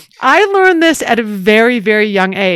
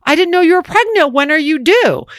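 gracious mother; 5 semitones higher than usual. Retold or imitated. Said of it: "said to her".

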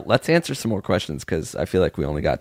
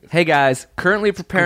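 a raised, put-on voice reading a fan letter; mock letter voice; 7 semitones higher than usual. Host reading a listener's letter aloud, lightly put-on voice. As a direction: read the fan's letter in a higher voice.

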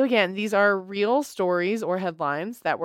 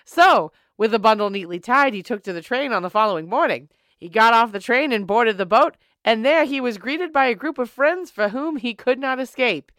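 put-on old-timey voice. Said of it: "use the old-timey voice".

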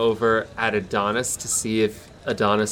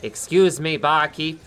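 higher, slow, grand ordering; suave Arete; 6 semitones higher, slower than usual. Acted. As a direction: savour every word like a fine wine. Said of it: "He pulls up and says".

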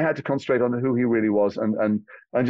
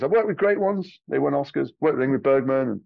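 Cary Grant impression. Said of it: "He says".

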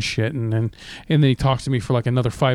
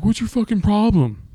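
higher, aggressive snap; mock angry boyfriend; 7 semitones higher than usual. Boyfriend snapping at girlfriend in back seat, mock anger. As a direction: throw it at her, pitched up and hostile. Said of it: "And he's like".

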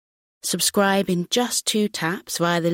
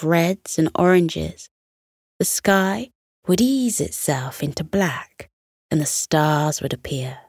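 soothing read-aloud voice; bedtime story narration. A narrator's reading. Bedtime story narration over music.

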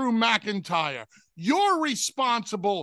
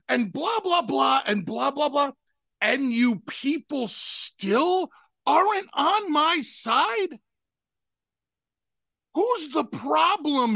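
each point put as an incredulous question; 3 semitones higher than usual. Shown as a demonstration. Host showing how the promo should sound, questioning incredulous delivery. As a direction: lay it out like you can't believe it. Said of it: "in a questioning tone".

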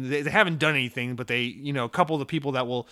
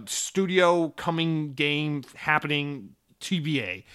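mock announcement; slower than usual. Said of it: "they'll be like".

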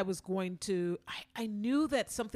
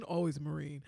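drill sergeant; 6 semitones lower, 4 dB quieter than usual. Retold or imitated. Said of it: "Is that your impression of a Marine?".

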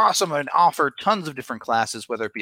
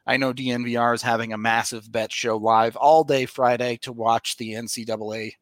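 upbeat sponsor read. Acted. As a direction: pitch it like a podcast ad. Reads sponsor ad.

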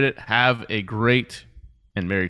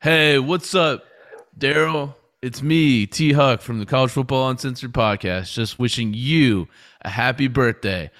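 a slow, drawn-out opening that eases into a casual greeting; mock cameo shoutout; slower than usual. Podcaster pretending to record a cameo for a fan, mock-cheerful. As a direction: ham up a paid birthday shoutout. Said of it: "I can't imagine myself making a cameo".

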